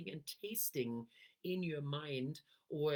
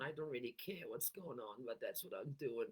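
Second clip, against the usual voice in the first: bored voice; 2 semitones lower, 4 dB quieter than usual. Shown as a demonstration. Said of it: "is really bored".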